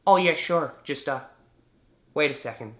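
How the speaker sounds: high put-on phone answerer; Canadian woman on phone. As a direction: imitate a woman stalling on a call.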